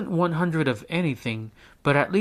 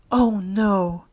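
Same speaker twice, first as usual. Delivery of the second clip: groaned; 7 semitones higher, 5 dB louder than usual. A narrator's reading. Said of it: "she groaned to herself".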